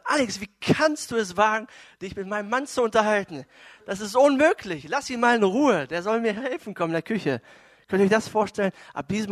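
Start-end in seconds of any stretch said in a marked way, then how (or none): 0.0-7.4 loud, higher-pitched indignant scolding; annoyed snapping. Retold or imitated. Wife scolding the guest for chatting with her husband, snapping. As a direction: lay into the guest, imitating an irritated wife. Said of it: "Sie schnauzt an Alex an".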